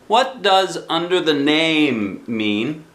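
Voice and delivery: put-on high, slow child's question; high puzzled child voice; curious child. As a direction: ask like a puzzled little boy. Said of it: "asked Christopher Robin".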